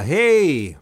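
high, slow, drawn-out silly voice; goofy high voice. Pretend. Goofy voice requesting a song.

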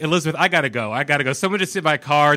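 loud hurried panic on the phone; frantic rush. Retold or imitated. Rattled driver telling friend on phone he must go, loud panic. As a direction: blurt it out, rattled and urgent. Frantic call after car hit.

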